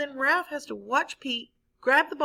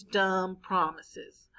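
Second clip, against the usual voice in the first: very slow, breathless sneering whisper; scornful whisper; 3 semitones lower, much slower than usual. Acted. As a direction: mutter it under your breath with contempt. Pete scorning the class promise.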